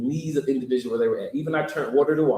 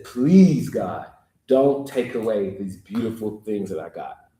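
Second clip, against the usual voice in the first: 1 retold begging; 5 semitones lower, slower than usual. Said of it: "So he begs out in the chorus".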